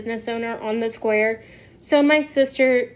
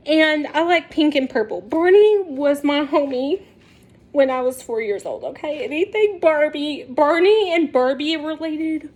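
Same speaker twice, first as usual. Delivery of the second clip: ordinary talk, nothing marked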